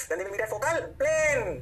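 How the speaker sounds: drawn-out, chant-like recital; slow drilled recitation. Shown as a demonstration. Teacher drills the rule into students, slow recitation. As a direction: stretch each word very slowly.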